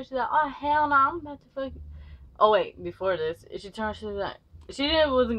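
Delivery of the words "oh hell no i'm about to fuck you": angry threat. Retold or imitated. Girl threatens Demonte.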